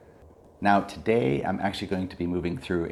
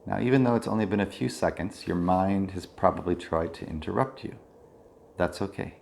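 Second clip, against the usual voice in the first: calm body-scan guidance with long pauses; measured mindfulness-teacher voice, leaving space between phrases; guided meditation. Real, not acted. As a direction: guide attention through the body, unhurried.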